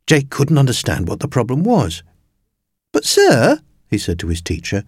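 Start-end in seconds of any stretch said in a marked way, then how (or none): 2.9-3.6 high, pleading little protest; protesting schoolboy. A narrator's reading. Puzzled Jake appealing to his teacher, high protest. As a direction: object in a high boy's voice.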